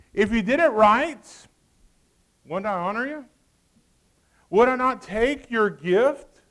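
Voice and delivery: preached scripture reading. Acted. God's words preached slowly.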